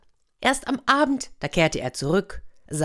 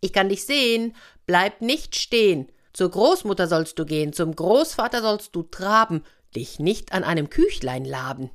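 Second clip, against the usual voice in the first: Mascha calls out her rhyme to the bear; sing-song call from hiding. Acted. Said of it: "rief aus dem Korb".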